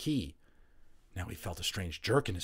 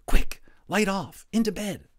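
higher, louder hurried orders; urgent commands; 12 semitones higher, 11 dB louder than usual. A narrator's reading. Patrick urgently orders Omri into bed, loud and high. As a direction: hustle your friend into bed fast.

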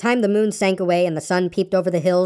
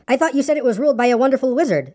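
puzzled objection, pitched higher; higher, bewildered protest; confused; 6 semitones higher than usual. A narrator's reading. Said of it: "seeming more and more confused".

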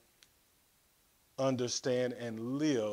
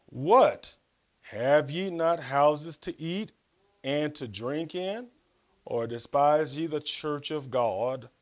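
scripture reading. Real, not acted. Preacher reading Paul's rebuke to the church, emphatic scripture reading. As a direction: put the rhetorical questions squarely, with pauses between. Reads scripture, rhetorical questions.

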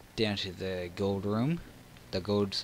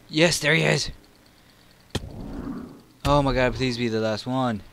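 high, loud thrilled shout; excited shout; 4 semitones higher, 8 dB louder than usual. Real, not acted. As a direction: cheer out loud. Excited find of target.

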